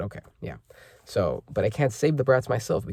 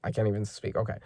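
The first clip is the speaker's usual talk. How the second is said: put-on a little kid apologising to his mum in a high voice; child's voice; 7 semitones higher than usual. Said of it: "Colin sees her and says".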